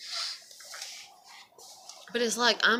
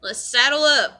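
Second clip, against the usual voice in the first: laughing and louder, higher; 7 semitones higher, 8 dB louder than usual. Retold or imitated. Seeing the hated ex-neighbour again, laughing louder. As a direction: laugh through it, mock bracing. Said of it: "I'm just like".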